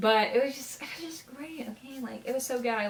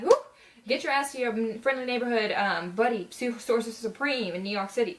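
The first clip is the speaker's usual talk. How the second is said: urging at the screen; 2 semitones higher, 3 dB louder than usual. Retold or imitated. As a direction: tell him off like yelling at a movie screen.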